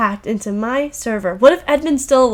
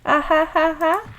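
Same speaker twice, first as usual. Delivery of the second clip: hammed-up gleeful tormentor; mocking villain; 4 semitones higher than usual.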